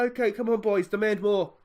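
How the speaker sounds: muffled through cupped hands; talking behind hands. Real, not acted. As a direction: speak into your hands. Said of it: "I'm talking behind my hands".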